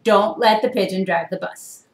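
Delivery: loud driver's warning to the reader; bus driver warning. Acted. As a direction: warn the kids like the bus driver. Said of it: "so there's the bus driver".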